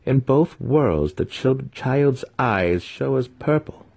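the matron speaks with cold authority; stern matron. A narrator's reading. Matron observing her newborn son, slow and stern.

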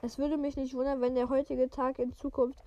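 even, measured read-aloud voice; story narration. A narrator's reading. Podcaster reading a wizard novel to listeners, story narration.

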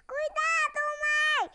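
high alarmed cry; urgent warning. Acted. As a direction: call out the danger. Rex warns of the sea.

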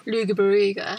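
"Luga Baruga" as LOO-guh-ba-ROO-guh; "Luga Baruga" with hard g and oo sounds; mock mispronunciation. Shown as a demonstration. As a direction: misread Loughborough as "Luga Baruga". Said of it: "They take a minute before they say".

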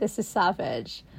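slow, breathy whispered aside. Real, not acted. Whispering to her sister that the story is savage. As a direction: drop to a hushed whisper. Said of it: "whispered aside".

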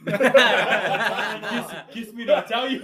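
laughing through a quoted line; half-laughing quote. Retold or imitated. Quoting Gary to the new guys, laughing.

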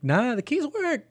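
slow mock casual answer; deadpan slow reply. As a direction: drawl it out matter-of-fact.

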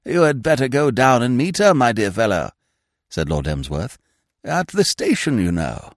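put-on high, fluttery voice of a vague old lord; a dithering aristocrat caught off guard, pitched high; flustered old earl. Vague old earl startled by his secretary, high and flustered. Lord Emsworth instructing Smith.

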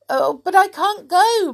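high, loud, hurried protest; blurted. A narrator's reading. Mister Happy protesting to Mister Mean, high blurted worry. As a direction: blurt it out in a fluster. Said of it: "blurted out Mister Happy".

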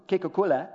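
"Kekukula" with "keh" at the start; first pronunciation. Shown as a demonstration. Preacher correcting himself from the brand name, "Kekukula" in the old pronunciation. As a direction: say "Kekukula" as one joined foreign word. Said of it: "was first pronounced".

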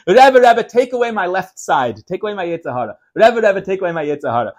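pleading cry, loudest on the first Rebbe; retelling a chassid's desperate plea, mildly acted; retold crying out. Teacher retelling a chassid bursting in, mock pleading cry. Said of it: "He cried out and he said".

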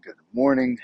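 bright rising wake-up call; loud sing-song greeting. Acted. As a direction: belt out the good morning. Greeting building to sung call.

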